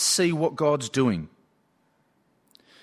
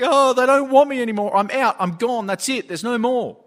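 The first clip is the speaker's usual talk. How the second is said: high, hurried mock outburst of despair; imitated yelling; 8 semitones higher, 4 dB louder than usual. Upset student won't hear his teacher, imitated yelling. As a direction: wail it out like an upset kid, imitating. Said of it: "he just kept yelling in the room".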